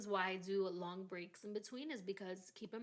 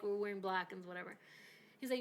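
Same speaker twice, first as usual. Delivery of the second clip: normal talking voice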